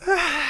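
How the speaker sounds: drawn-out mock sob; imitated crying wail. (gemido largo imitando el llanto)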